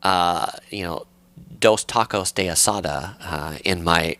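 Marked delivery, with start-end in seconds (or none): 1.6-3.1 Spanish in a thick American accent; tourist's Spanish with an American accent. Shown as a demonstration. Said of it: "worst, uh, American accent of Spanish".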